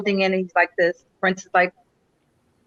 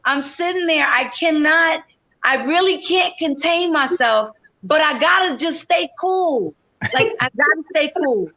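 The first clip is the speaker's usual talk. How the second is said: barely contained excitement; 5 semitones higher than usual. Retold or imitated.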